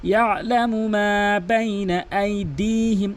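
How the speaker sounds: slow chanted recitation; Quran recitation. Shown as a demonstration. Teacher recites the corrected phrase, slow chant. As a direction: chant it slowly and evenly.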